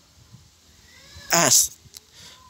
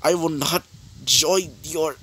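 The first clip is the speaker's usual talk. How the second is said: hero refusing his friend; 4 semitones higher than usual. Acted. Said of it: "As he would say this".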